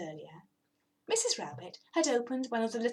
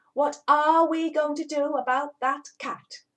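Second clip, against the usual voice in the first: a cross, louder rabbit complaint; 5 semitones higher, 7 dB louder than usual. Acted. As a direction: grumble loudly about the cat. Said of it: "said Mister Rabbit crossly".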